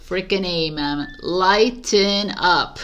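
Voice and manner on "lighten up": slow, laughing "Lighten up". Acted. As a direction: laugh through "Lighten up", stretching it. Repeats it laughing, drawn out.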